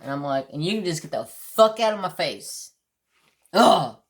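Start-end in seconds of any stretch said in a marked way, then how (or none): 0.5-2.7 exasperated retort with a punched curse; retold pissed-off dismissal. Customer telling the worker to back off, pissed. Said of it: "I was so pissed". 3.5-4.0 loud, short groan of annoyance; exasperated groan. Real, not acted. Customer recalling the argument, exasperated groan. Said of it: "I was so pissed".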